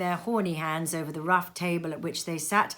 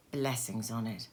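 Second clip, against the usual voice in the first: breathless awe; 8 semitones lower, 10 dB quieter than usual. A narrator's reading. Narrator's awed exclamation.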